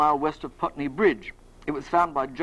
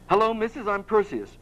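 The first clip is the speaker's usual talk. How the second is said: lightly done Cockney greeting; amateur Cockney chap saying hello; a hint of Cockney cheek; rough Cockney accent; 3 semitones higher than usual. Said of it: "like to do a Cockney accent".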